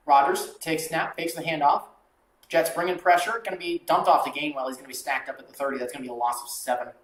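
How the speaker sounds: brisk announcer call of the snap and the sack; live play-by-play. Acted. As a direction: call the drive like a broadcaster. Calling the next drive.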